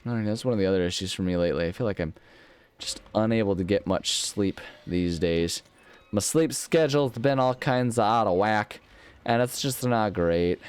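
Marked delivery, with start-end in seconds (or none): 2.8-10.6 funny voice. Pretend. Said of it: "I'm saying it with a funny voice".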